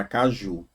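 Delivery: caju with the last syllable JU held longer; stress on final JU. Shown as a demonstration. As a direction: linger on the "ju" of caju. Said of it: "demora mais no ju".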